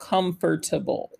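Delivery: slow pronunciation of "comfortable". Showing learners the word said slowly: saying comfortable slowly.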